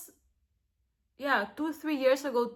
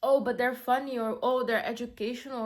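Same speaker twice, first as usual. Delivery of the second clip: mock excuses; 5 dB louder than usual. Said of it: "and thinking that".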